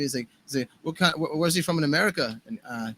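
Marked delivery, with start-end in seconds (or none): 0.8-2.4 badly faked British accent; a famous drummer. Sound guy asking the tour manager about the singer, bad British impression. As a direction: lightly imitate an English sound guy's accent. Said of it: "doing a terrible impression of a famous drummer".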